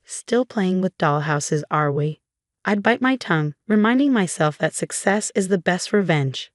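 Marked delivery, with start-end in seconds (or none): 0.0-2.2 slow, syrupy mock sweetness; drawn out, sweet on the surface and needling underneath; fake sweetness. Cousin Carla needling Galena at family gatherings, slow fake-sweet tone. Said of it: "voice dripping with fake sweetness".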